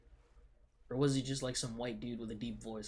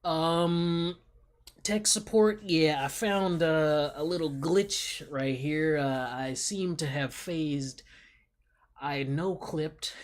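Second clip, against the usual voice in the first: louder, slow, amused mock report to tech support; mock tech support call; 3 semitones higher, 8 dB louder, slower than usual. Real, not acted. Reporting to tech support that he fell through the floor, loud and amused. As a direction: announce the glitch like calling a help desk, amused.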